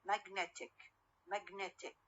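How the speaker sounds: "Magnetic" stressed on NET, the middle; stress on middle syllable. Shown as a demonstration. Teacher repeats the shifted form for students, NET stressed in "Magnetic". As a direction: put the main beat on NET in "Magnetic". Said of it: "الوسط ويصير المشدد".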